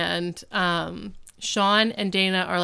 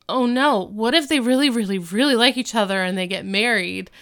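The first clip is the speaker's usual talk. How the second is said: panicked; 3 semitones higher, 4 dB louder than usual. Retold or imitated. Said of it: "Dana's like".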